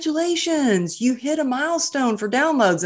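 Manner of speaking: high, singsong congratulatory voice; retold congratulations. Podcast editor emails the host about a download milestone, mock excited congratulations. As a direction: imitate an upbeat well-wisher, pitched well up.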